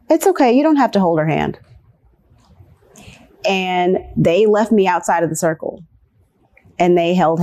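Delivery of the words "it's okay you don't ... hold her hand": a high, sugary "it's okay" that quickly drops to a light brush-off; lightly voiced teacher soothing away the problem; teacher reassuring. Teacher dismissing a child's hurt with a mild sweetness. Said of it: "the teacher said".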